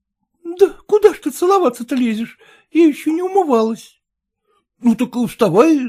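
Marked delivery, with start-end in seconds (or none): none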